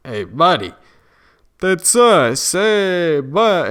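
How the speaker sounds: delighted, calling out to a buddy; excited soldiers. Retold or imitated. Soldiers tell him they're his company, excited. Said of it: "they're like".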